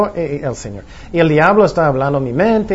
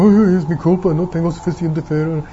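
mock worried self-reproach; self-blaming lament. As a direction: act out someone fretting it's their fault. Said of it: "no quiero que ustedes estén pensando". (lamento fingido de culpa)

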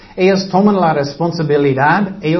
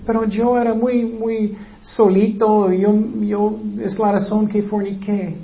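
whiny excuse; 4 semitones higher than usual. Acted. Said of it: "No vas a decir".

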